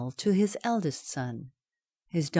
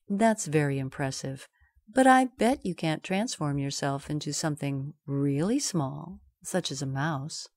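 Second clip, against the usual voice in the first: calm; 3 semitones lower than usual. Acted. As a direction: say it coolly, baiting. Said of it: "the cat calmly said".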